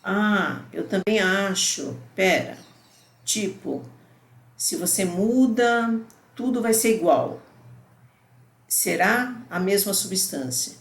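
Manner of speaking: a hint of a puzzled student; student pondering aloud. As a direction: read it as the student thinking it through. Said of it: "aqui, ó".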